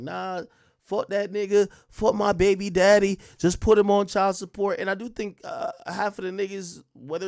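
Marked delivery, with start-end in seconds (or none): 0.0-4.8 loud, high mocking rant; mock the fed-up baby mamas, loud; mocking angry women. Mimicking Shade Room women cursing the baby daddy, loud. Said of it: "they be on some shit like".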